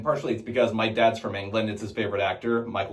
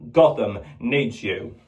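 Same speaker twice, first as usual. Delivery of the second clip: Michael Caine as Alfred; 3 semitones lower than usual. Retold or imitated. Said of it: "Alfred in the Batman movies".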